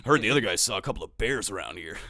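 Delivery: game voice line. Retold or imitated. Voice actor proving who he is, lightly imitated voice line. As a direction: deliver it like a canned game line. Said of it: "the fucking voice line guy".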